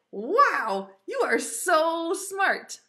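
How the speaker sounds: thrilled, drawn-out praise; excited praise. Pretend. Teacher praising preschoolers for being smart, excited.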